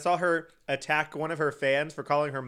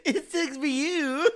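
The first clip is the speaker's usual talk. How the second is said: high, slow words squeezed through laughter; laughing hard; 12 semitones higher, slower than usual. Real, not acted. Commenting on the singer's song, laughing helplessly. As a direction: barely get it out for laughing.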